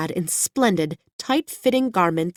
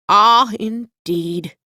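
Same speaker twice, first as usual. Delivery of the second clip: slow, doubtful hen drawl; a skeptical hen stretching out her doubt; disbelieving; 3 semitones higher, 5 dB louder, much slower than usual. A narrator's reading. Hen doubts Dorothy's silver shoes story, slow and disbelieving. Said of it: "in a tone of unbelief".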